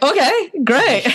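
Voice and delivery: high, slow, dazed okay great; mock stunned. Telling the host how she reacted, high and slowly stunned. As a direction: act floored but keep it light.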